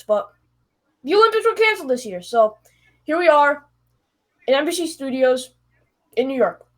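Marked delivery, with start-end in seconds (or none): none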